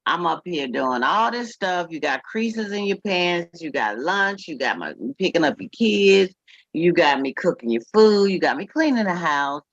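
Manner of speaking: put-on a touch of an exasperated girlfriend; mock demanding girlfriend. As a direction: voice her fed-up demands to the man. Voicing the woman's demands.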